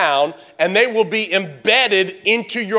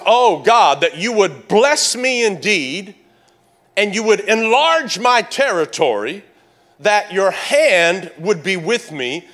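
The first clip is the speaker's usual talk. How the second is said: Jabez praying. Acted. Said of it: "And he says".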